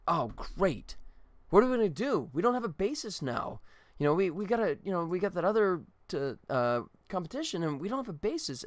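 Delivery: retold sitcom panic, lightly played; panicked quartet member. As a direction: fret about the lost bassist, half-acting it.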